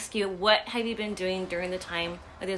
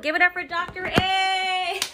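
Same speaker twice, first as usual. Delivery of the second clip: slow, loud announcer call; announcer hype; 9 semitones higher, 5 dB louder than usual. Acted. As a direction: introduce him like a show host. Announcing the guest.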